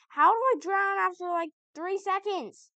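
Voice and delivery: high, loud disbelief then slowing; can't believe it happened; incredulous. Real, not acted. Frustrated at drowning.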